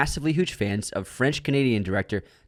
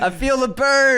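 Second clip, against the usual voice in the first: laughing; 11 semitones higher, 4 dB louder, slower than usual. Real, not acted. Reacting to roast.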